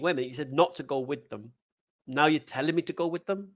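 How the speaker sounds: N=Balaam/character; Balaam's puzzled thoughts. Retold or imitated. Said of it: "So Balaam's like, it must be thinking".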